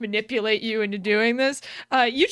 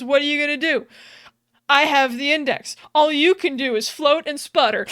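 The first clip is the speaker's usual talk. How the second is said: mock defiance, a bit louder; retold taunting yell; 2 semitones higher, 5 dB louder than usual. Cortana yelling at the Guilty Spark, mock taunting yell. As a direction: throw the challenge back with raised voice. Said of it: "Cortana then proceeds to yell".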